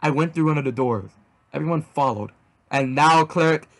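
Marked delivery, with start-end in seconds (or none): 2.7-3.7 grand slow proclamation rising to a high held word; theatrical yell. A narrator's reading. Hero passes sentence on Cleric, yelling theatrically. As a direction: stretch "deleted" out in a high yell. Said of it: "I yelled".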